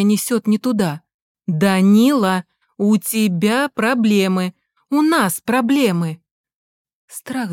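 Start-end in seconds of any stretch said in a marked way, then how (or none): 1.5-6.2 медленно, с нажимом, громче; вдалбливай каждое слово; настойчиво. Acted. Мать в страхе настаивает. (испуганная мать настаивает, медленно и громко)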